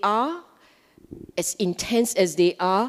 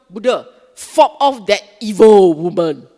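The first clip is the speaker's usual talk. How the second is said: mock plea; 11 dB louder than usual. Mock prayer to Buddha.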